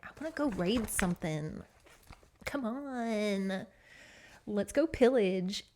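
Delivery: a hint of restless young bucks; lightly voiced eager youths. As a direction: drag it out like boys pestering for an outing. Young bucks itching to raid.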